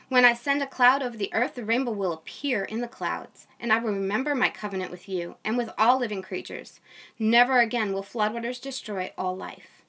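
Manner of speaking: steady, measured Bible reading voice; scripture reading. Acted. A mom reading Genesis to her online audience, measured reading. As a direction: read the passage aloud to the viewers.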